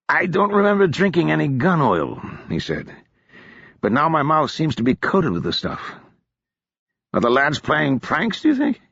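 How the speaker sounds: a hint of a hungover gentleman wondering; befuddled drunk.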